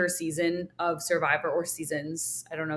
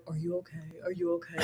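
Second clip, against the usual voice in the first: mock concern; 4 semitones lower, 12 dB quieter, faster than usual. Mocking Tom's fake concern.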